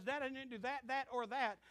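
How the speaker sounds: high, loud pleading son; whiny son excuse. Retold or imitated. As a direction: play the guilty son making excuses. Son's excuse acted out.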